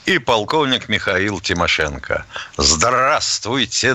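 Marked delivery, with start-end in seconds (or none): 2.6-3.9 slow, drawn-out solemn greeting; solemn Soviet radio announcer. Pretend. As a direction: greet like a Soviet state broadcaster. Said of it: "работают все радиостанции Советского Союза".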